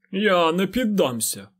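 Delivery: high, slow stubborn declaration; proud defiance. A narrator's reading. Fain defies the lord, proud and stubborn. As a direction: set your jaw and refuse with pride. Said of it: "звучали пиха та впертість".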